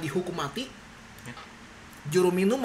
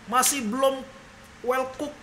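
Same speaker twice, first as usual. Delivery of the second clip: picky king; 7 semitones higher, slower than usual. Retold or imitated. Imagined picky king complaining.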